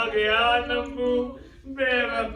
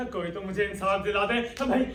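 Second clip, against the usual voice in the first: crying out for justice; 3 dB louder than usual. Acted. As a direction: howl to the street for help. Robbed man cries for justice.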